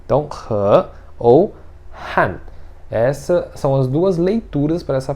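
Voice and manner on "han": han falling fast and hard; short, forceful falling han; fourth-tone han. Shown as a demonstration. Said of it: "ele desce rápido, desce forte".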